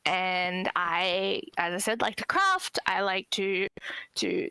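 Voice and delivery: usual speaking voice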